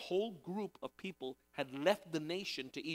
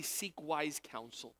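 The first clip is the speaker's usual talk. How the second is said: slow emphatic; much slower than usual. Shown as a demonstration. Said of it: "emphasis on wise".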